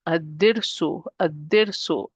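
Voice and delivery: Ad-dirsu with doubled D, no L; lam dropped. Shown as a demonstration. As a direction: join A straight onto the D in Ad-dirsu. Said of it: "I'm not pronouncing the lam".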